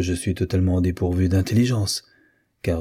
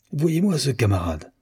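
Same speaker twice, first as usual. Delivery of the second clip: higher-pitched exasperated outburst, moderate; an old admiral fuming at his nephew, pitched up; red-hot anger; 6 semitones higher than usual. A narrator's reading. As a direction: uncle venting at the dog about his nephew, a hint of anger. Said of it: "dans une colère poussée au rouge".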